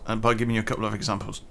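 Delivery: soft whispered aside; whispering. Real, not acted. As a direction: whisper it, almost secretive.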